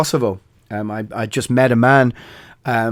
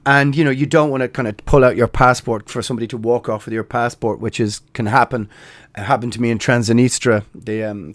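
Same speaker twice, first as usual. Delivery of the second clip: normal talking voice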